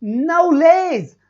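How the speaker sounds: नॉलेज drawn out very slowly as "naules"; slow careful नॉलेज; slow pronunciation demo. Shown as a demonstration. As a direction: stretch out नॉलेज syllable by syllable. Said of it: "देखो नॉलेज".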